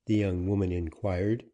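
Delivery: ordinary delivery, nothing marked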